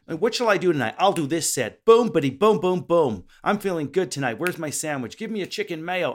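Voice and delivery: high, loud, cocky American swagger; brash American comedian. Retold or imitated. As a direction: hype yourself up like a brash comic before a set. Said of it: "let's say American comedians".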